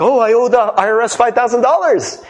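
a lightly voiced, trusting dupe; gullible voice. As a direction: take the scammer at their word, naive. Gullible person believing scam call.

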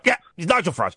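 lightly voiced Farage, close to own voice; a hint of Farage, brisk and clipped yeps; barely changed self-impression; own Nigel Farage voice. Shown as a demonstration. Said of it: "I talk like that".

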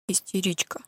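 soft, smug verdict; calm and satisfied. Acted. Mother calmly labeling Lia, soft and smug. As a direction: say it quietly, pleased with yourself. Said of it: "спокойно и удовлетворённо произнесла".

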